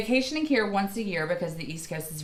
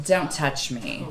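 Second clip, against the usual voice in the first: firm warning; 5 semitones lower, slower than usual. Real, not acted. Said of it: "first of all".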